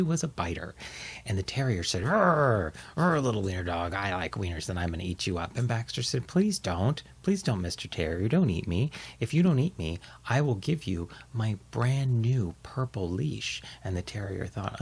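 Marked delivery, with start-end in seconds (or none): 2.0-5.5 growling dog. Acted. Terrier threatens in story. 6.3-13.6 pleading little dog. Acted. Baxter begs in story.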